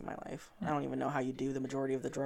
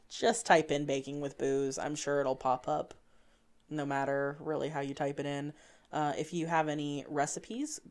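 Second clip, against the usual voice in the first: customer service voice. Acted. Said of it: "I love how you just switched to your customer service voice".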